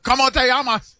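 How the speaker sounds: Osaka-tinged Spanish. Pretend. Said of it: "like you're from Osaka".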